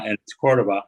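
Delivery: Cordova with the stress on the first syllable, COR-do-va; careful corrected Cordova, COR stressed; corrected pronunciation. Shown as a demonstration. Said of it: "mispronouncing your name".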